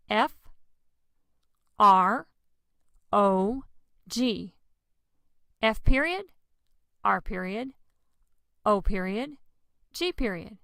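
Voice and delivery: letters of FROG called out one by one; spelled out letter by letter. Shown as a demonstration. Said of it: "And what's that mean?".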